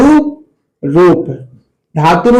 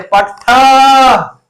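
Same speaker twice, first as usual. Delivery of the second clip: very slow, stretched shout of "पठथा"; drawn-out call; 4 semitones higher, much slower than usual. Shown as a demonstration. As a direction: call "पठथा" out long like across a valley. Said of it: "जितना जोर से चिल्ला सकते हैं". ("पठथा" को खींचकर ज़ोर से पुकारना)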